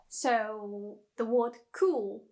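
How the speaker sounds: cool said slowly, English vowel; plain cool. Shown as a demonstration. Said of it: "more like u, like, very strong".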